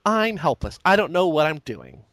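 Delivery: a hint of a clueless girl, mocking; mock helpless girl. Mocking the women in the movie, a light helpless damsel voice.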